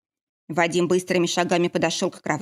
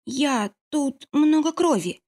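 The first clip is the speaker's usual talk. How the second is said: a frightened, slow, higher excuse; making excuses; 8 semitones higher, much slower than usual. A narrator's reading. Scared healer justifies herself to the angry heroine, slow and frightened. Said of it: "стала оправдываться она".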